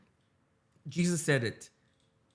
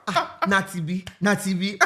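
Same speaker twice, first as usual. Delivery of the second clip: laughing quote. Retold or imitated. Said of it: "you even said it was".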